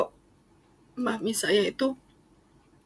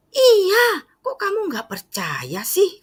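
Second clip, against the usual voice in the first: much higher imitated mother, half crying; hurt mother; 13 semitones higher, 5 dB louder, slower than usual. Mother hurt her daughter doubts her, high and tearful. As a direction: protest like a hurt mom not believed. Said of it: "Katanya gitu".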